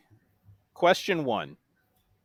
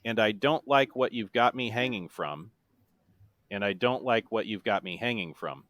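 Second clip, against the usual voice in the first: evenly recited lyric, repeated after a pause; deadpan monotone; 2 semitones lower than usual. Shown as a demonstration. Quizmaster reads the seventh chorus clue, in a monotone. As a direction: speak the chorus with no singing. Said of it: "said in my best monotone voice".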